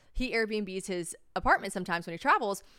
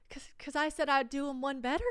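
higher, halting admission; sheepish confession; 6 semitones higher than usual. Retold or imitated. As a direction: reenact owning up to mom. Sheepish confession to mother, reenacted.

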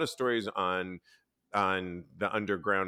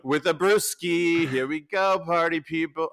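high, slow and louder bro voice, dragging the words; party bro impression; 8 semitones higher, 7 dB louder, slower than usual. Mocking a friend's party bro voice in front of podcast cohosts. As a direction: ham up a party bro pitching weekend vids. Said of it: "this is how Steve V talks".

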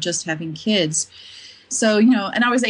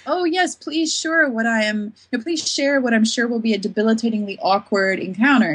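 sarcastic mock eagerness. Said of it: "you just wanna be like".

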